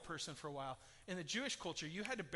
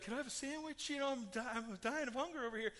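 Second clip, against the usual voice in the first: higher, put-on voice of a man just woken from death; revived dead man; 5 semitones higher than usual. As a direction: play the groggy corpse asking for food. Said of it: "they'd be like".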